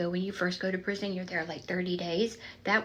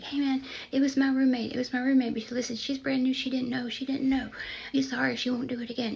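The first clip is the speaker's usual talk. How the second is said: higher, louder rushed pleading; fast pleading; 5 semitones higher, 4 dB louder than usual. Retold or imitated. Sheila pleading with angry inmate, rushed. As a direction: talk her down quickly and urgently. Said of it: "talking fast for me".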